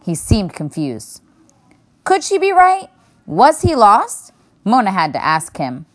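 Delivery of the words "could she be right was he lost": put-on little girl voice. A narrator's reading. Mona's worried inner questions.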